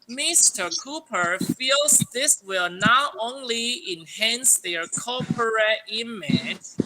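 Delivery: slow, clear read-aloud for students; slow model reading. Shown as a demonstration. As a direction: read it out word by word for the class. Teacher reads model sentence. (老师给学生示范，慢慢清楚地朗读)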